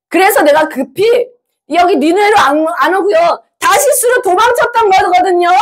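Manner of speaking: put-upon prophet justifying himself; acted angry Jonah. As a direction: protest to God, pitch climbing as it goes. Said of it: "요나가 왜 화를 냈는지 보세요".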